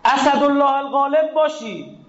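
high, impassioned pulpit voice, slowing on the key lines; fiery preaching. Acted. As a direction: preach it with rising force to the congregation. Preacher raises his voice. (منبری پرشور و با صدای بالا)

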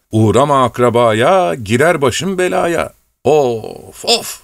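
high, sighing self-reproach; an old man wailing at his own foolishness; lamenting old servant. Acted.

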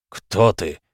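с яростью, сипло и сдавленно; прохрипеть вопрос гиганту в лицо; яростный хрип. A narrator's reading. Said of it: "яростно прохрипел адмирал". (адмирал яростно хрипит викингу)

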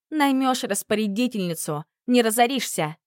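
ordinary delivery

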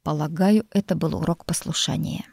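calm hushed reply; calm, whispered. Acted. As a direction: say it calmly, under your breath. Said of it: "спокойно сказал лорд". (спокойно, шёпотом)

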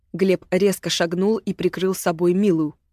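plain reading voice

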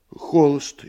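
startled high answer; frightened. Acted. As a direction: blurt it out in fright. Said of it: "испуганно ответил Рюхин".

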